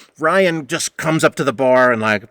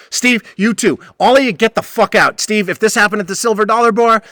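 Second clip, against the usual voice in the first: heated shouting; 5 semitones higher, 4 dB louder than usual. Retold or imitated. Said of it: "then I lost it".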